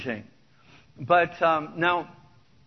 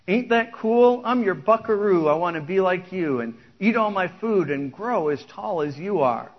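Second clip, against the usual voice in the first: beam with pride at dad; a little boy bragging he is like his dad; proud little boy; 2 semitones higher, 5 dB louder than usual. Acted. Son's proud chorus reply.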